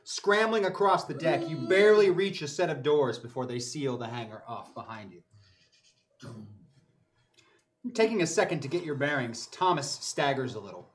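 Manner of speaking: game master narration. A narrator's reading. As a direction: narrate it like a sci-fi action scene. GM scene narration.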